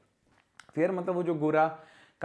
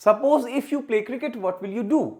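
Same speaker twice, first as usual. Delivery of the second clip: slow, louder wrong question; wrong example, slow; 5 semitones higher, 4 dB louder, much slower than usual. Shown as a demonstration. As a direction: read out the faulty question. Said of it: "suppose के साथ if नहीं लगेगा".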